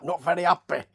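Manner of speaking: mock Yorkshire accent. Repeating the wrestler's imagined words, mock Yorkshire accent. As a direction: say happy as 'appy, Yorkshire style. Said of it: "he's not from Yorkshire or anything".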